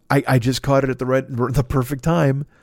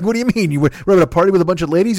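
surprised guests; 5 semitones higher, 4 dB louder, faster than usual. Retold or imitated. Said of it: "They're like".

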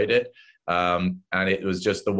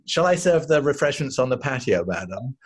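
polite butler; 3 semitones higher than usual. Retold or imitated. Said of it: "just a butler called Shane".

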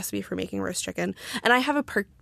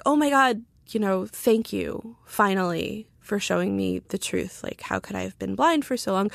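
retold sarcasm. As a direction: gush sarcastically, as if suddenly enlightened. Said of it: "responded to him kind of sarcastically".

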